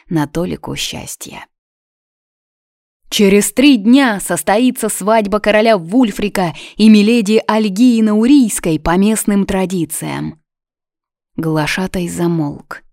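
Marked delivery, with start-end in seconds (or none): 3.1-10.4 high, loud herald's call; town crier. A narrator's reading. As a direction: ring it out across the square. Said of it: "в голосе глашатая слышала погребальный звон". (глашатай, высоко и громко)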